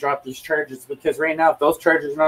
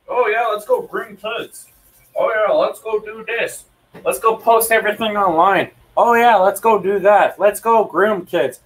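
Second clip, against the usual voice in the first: mocking impression of cops; 3 semitones higher than usual. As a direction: mimic them in a higher, sarcastic singsong. Mocking the police's attitude.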